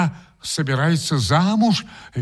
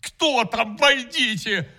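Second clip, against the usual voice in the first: сквозь слёзы; 7 semitones higher, 3 dB quieter, slower than usual. Acted. Отзывается на стук сквозь слёзы.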